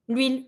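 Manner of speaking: "L'huile" as lweel, H not sounded; French "L'huile" in one syllable; silent H. Shown as a demonstration. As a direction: glide from L straight into the vowel in "L'huile". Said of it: "so we don't pronounce it".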